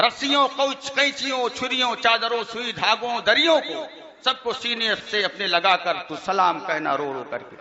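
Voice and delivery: reciting absurd verses to an amused crowd; mock poem recitation. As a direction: rattle off the list in verse, amused. Recites mocked salaam verses.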